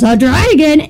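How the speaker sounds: put-on startled question in a light Scottish accent. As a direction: imitate a father with a Scottish accent. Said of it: "in a Scottish accent".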